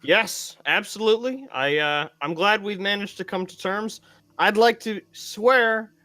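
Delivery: formal oath. Acted. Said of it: "volunteer to step up and say".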